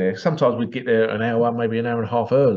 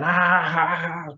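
light imitated cackle, ah ah ah; a mild mock witch laugh; 4 semitones higher, much slower than usual. Old women in the audience at the dirty joke, mild mock witch cackle. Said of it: "like a cackling witch laugh".

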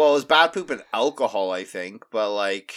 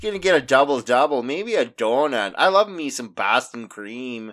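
mock Canadian accent drifting Scottish; 2 semitones lower than usual. Joking about Tim Hortons with a friend, in a mock Canadian accent turning Scottish. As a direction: play a Canadian hoser craving donuts, slipping into a Scottish lilt. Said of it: "you're drifting into a Scottish".

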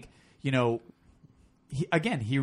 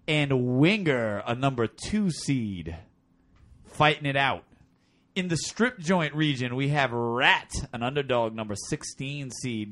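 strip club DJ voice. Acted. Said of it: "strip club D J voice?".

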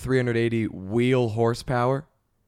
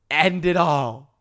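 deadpan despair; 3 semitones higher, much slower than usual. Acted.

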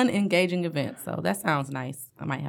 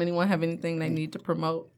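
fast hushed whisper; 6 dB quieter, faster than usual. Real, not acted. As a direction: whisper it quickly. Whispered aside.

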